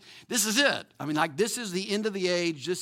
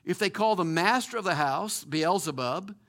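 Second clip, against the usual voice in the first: earnest pastoral prayer voice; closing prayer. Acted. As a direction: pray over the congregation.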